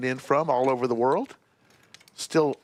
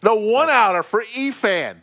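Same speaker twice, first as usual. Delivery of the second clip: excited; 9 semitones higher, 6 dB louder than usual. Real, not acted. Big river call.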